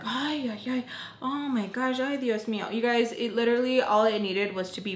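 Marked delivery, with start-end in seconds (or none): 0.0-2.7 lightly mocking a dramatic mother; a hint of fussing melodrama; dramatic Missus Peach. Narrator mocking Missus Peach's dramatic fuss over the mess. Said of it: "so dramatic".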